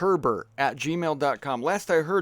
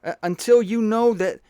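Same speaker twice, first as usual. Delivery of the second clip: higher-pitched, hesitant, apologetic messenger; Woody Allen; 3 semitones higher than usual. Acted. Messenger unsure of his own decree, hesitant Woody Allen impression. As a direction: fumble the prophecy, stammering and correcting yourself. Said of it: "I was doing Woody Allen".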